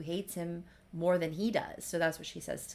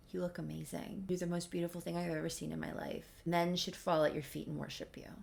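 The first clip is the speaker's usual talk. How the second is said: soft adoring praise; 6 dB quieter than usual. Retold or imitated. Tyler's soft devoted praise.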